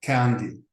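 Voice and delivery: candy said with a hard K sound. Shown as a demonstration. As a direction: say candy with a crisp K. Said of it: "will be written as ka".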